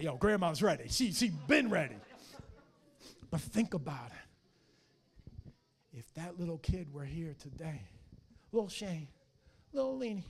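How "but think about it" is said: "think" drawn out very slowly; slow right down on "think"; slow, weighted repeat. Shown as a demonstration. Pastor repeats it slowly so the church reflects.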